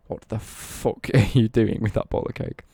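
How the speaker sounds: put-on loud, half-laughing shout at a kid; shocked shopkeeper. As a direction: blurt it out like a startled cashier. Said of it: "the woman that is sat on the till going".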